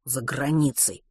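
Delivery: muttered through gritted teeth; grudging mutter through teeth. Acted. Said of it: "сквозь зубы процедил Матвей".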